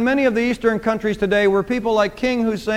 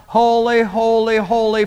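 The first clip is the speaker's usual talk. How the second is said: each holy called out, first loudest; ringing threefold holy; emphatic holy. Shown as a demonstration. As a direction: proclaim holy three times. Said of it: "for emphasis here".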